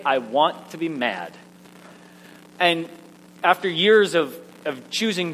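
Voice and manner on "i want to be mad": low, sulky insistence; mock grouchy refusal, pitch dropping; grumpy insistence. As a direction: sulk it downward, determined to stay grumpy. Acted refusal to choose joy.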